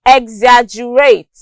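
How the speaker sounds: "exaggerate" stressed on AG; second-syllable stress. Shown as a demonstration. Teacher giving an example, "exaggerate" stressed on its second syllable. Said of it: "stress on the second syllable".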